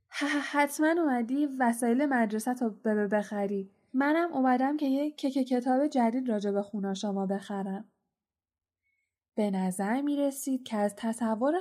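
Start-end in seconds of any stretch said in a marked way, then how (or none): 0.1-7.8 a hint of nervous stammer; nervous stuttering. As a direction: trip over the first sounds, uneasy. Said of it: "با حالتی عصبی خندید و گفت". (لکنت عصبی و آرام)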